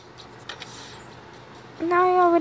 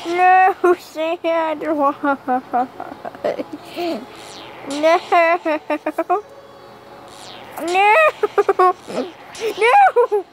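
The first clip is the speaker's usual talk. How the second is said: playful shout; 3 semitones higher, much slower than usual. Pretend. Shouting at game character Sandra.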